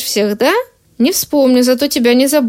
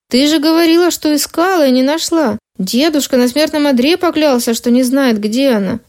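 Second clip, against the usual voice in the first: flustered, rising; 2 semitones higher than usual. Acted. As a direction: push the confusion up a notch. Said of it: "сбивчиво заговорил я".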